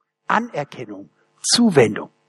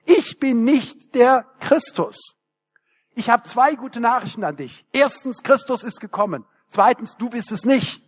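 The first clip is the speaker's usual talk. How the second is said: beaming; 5 semitones higher than usual. Retold or imitated. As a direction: deliver it grinning like a proud child. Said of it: "strahlend wie ein Honigkuchenpferd".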